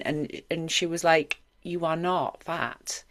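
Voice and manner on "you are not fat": reassuring mother. Retold or imitated. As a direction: ease the words out gently, like reassuring a child. Mum reassuring her as a girl.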